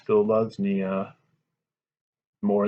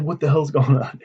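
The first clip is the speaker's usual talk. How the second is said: angry demand; 5 semitones higher, 5 dB louder than usual. Acted. Duke repeats his demand, louder.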